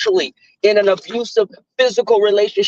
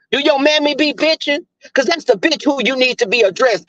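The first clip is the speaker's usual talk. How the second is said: retold indignant comeback; going off on him; 5 semitones higher than usual. Answering an ex's insult, indignant and higher-pitched. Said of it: "I went off on him".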